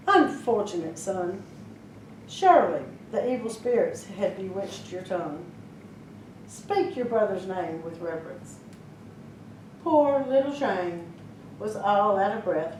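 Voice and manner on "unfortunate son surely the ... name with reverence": lower, softer, solemn rebuke; a grave mother correcting her son; stern mother. Acted. Mother sternly tells her son to show reverence.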